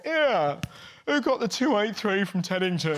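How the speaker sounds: hammed-up stadium frontman call, laughing through it; a singer's shout. A singer addressing the stadium crowd, mock rock-star shout. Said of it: "the singer came out and just went".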